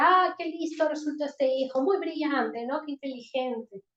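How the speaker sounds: mock praise, biting sarcasm; sarcastic. Shown as a demonstration. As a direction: praise him mockingly to sting. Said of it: "Ahí estoy usando el sarcasmo". (sarcasmo burlón de padre)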